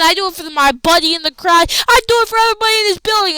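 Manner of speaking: a champion working up the crowd; fired-up promo. Retold or imitated. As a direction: build it from earnest to a fast climax. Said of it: "basically saying".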